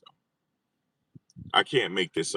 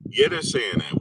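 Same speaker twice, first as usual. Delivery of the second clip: mock squeak; 6 dB louder than usual.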